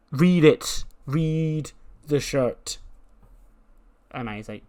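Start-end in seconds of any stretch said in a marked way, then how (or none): 0.1-2.8 raised, insistent command, slowing right down; exasperated order. Acted. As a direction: spell it out slowly for a clueless friend. Dio ordering Manny to look.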